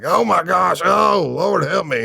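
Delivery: high-pitched, drawn-out mock wail; horrified onlookers. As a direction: imitate appalled men wailing in sympathy. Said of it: "what the dudes in the back of the truck were doing".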